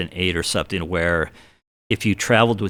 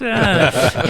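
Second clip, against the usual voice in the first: short high imitation of polite laughter; high mock laugh; imitated laugh; 11 semitones higher than usual. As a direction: mimic a room kind of laughing. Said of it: "they all kinda laughed".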